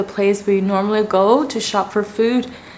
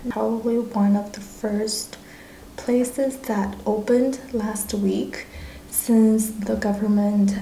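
quiet at night; 6 dB quieter than usual. Real, not acted. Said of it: "I'm whispering now".

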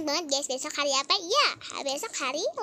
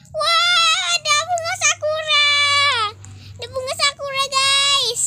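excited; 12 semitones higher, 13 dB louder than usual. Real, not acted. Delighted at sakura flowers.

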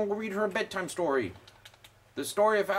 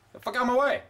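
pushy retort; 3 semitones higher, much faster than usual. Real, not acted. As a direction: get the fuck out of my way, pitched up with a rising end. Shoving past NPCs in game.

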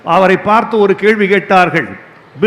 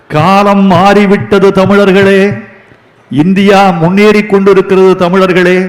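rallying call; 5 dB louder than usual. Real, not acted. Orator turns from joke to rally.

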